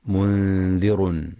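منذر ending in "-un", slowly; wrong tanwin. Shown as a demonstration. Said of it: "فلا يقرأ بالتنوين".

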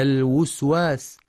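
"الوسواس" as al-wuswas; waw with damma. Shown as a demonstration. Teacher showing another mistake, "الوسواس" as al-wuswas. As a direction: slowly put a u on the first waw of "الوسواس". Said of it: "أو ضمها".

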